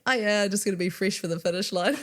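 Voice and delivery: light Kiwi accent impression. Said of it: "This Kiwi accent".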